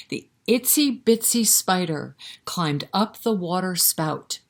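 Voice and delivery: put-on sing-song rhyme read to little kids; lilting, rhythmic recitation for toddlers; nursery rhyme recital.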